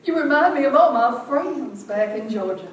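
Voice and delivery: delighted Georgia lady, laughing; charmed Georgia woman. Retold or imitated. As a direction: gush like an old friend from home. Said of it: "And she said".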